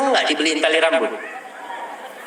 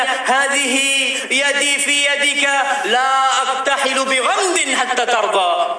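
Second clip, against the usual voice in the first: kutipan Arab; 10 semitones higher than usual. Retold or imitated. Mengutip doa istri dalam Arab.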